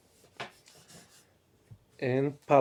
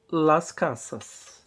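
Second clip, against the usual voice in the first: slow teaching demo; 5 semitones higher, slower than usual. Shown as a demonstration. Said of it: "teacher models the plural slowly".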